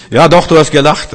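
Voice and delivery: insisting angel. Acted. The angel insisting to Sarah that she laughed. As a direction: catch her out firmly. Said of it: "kommt der Engel und sagt".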